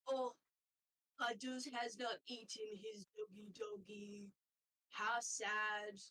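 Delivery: lightly voiced doting otter, a little sad; a strange otter hoping for the leftover food; odd otter voice. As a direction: otter keeper offering to eat the dog's food. GM plays otter figure.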